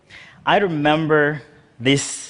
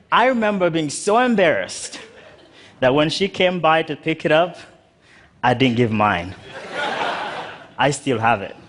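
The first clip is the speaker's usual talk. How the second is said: laughing. Real, not acted. Embarrassed towel story, laughing.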